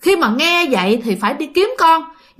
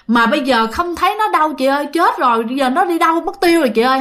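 lightly acted distress, pitched up; worried child; 3 semitones higher, faster than usual. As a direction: voice a worried child telling big sister. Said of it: "Hai đứa đang lo lắng vậy đó".

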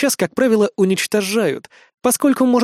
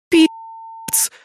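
выдохнуть ругательство, схватившись за голову; потрясённый шёпот; выдох шёпотом; 9 semitones higher than usual. A narrator's reading. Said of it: "выдохнула Эрис". (Эрис в шоке выдыхает ругательство шёпотом)

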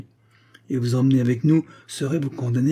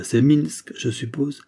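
doubtful question; 3 semitones higher, slower than usual. Acted. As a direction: question rising high at the end, voice raised. Le narrateur interroge le prisonnier. (c'est Minsk posé en question, ton montant)

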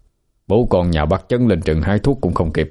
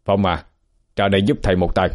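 called from outside. A narrator's reading. Teacher calls Phong from outside, muffled. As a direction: call the pupil from beyond the door. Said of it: "có tiếng ông Khôi gọi vọng vào".

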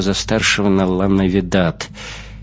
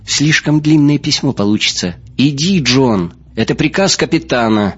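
higher-pitched, insistent command; firm captain's order; 6 semitones higher, 4 dB louder than usual. Acted. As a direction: order him off, no argument. Капитан приказывает Джону уйти.

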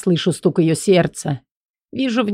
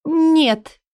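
Элли's voice; 10 semitones higher than usual. Acted. Элли desperate, higher.

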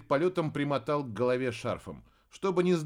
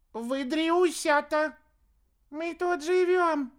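very high, slow squeak; thin little voice; 14 semitones higher, 4 dB louder, slower than usual. A narrator's reading. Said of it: "такой же тоненький".

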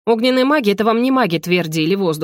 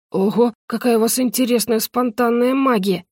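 surprised mutter; 4 semitones higher than usual. Acted. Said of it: "удивлённо пробормотал он".

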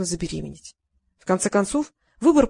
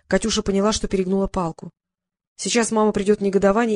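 plain reading voice

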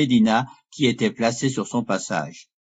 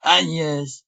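higher-pitched cry of astonishment; startled exclamation; 4 semitones higher, slower than usual. A narrator's reading. Lorenzo recognises his sister Agnès, startled exclamation. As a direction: exclaim it, taken aback. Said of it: "s'écria Lorenzo".

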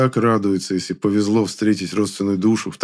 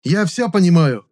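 loud angry snap; snarling; 10 semitones higher, 6 dB louder than usual. A narrator's reading. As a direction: bite back in fury. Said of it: "вызверился я".

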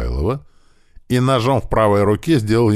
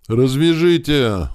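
high, drawn-out whimpering plea; a captive whimpering to be untied; whining plea; 9 semitones higher, 4 dB louder, slower than usual. Acted. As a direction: whine it out, begging and slow. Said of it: "заскулил Михайлов".

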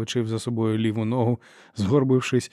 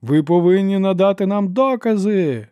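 louder, higher outcry; exclaimed; 8 semitones higher, 6 dB louder than usual. A narrator's reading. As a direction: call it over the quieting hall. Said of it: "вигукнув Ішар".

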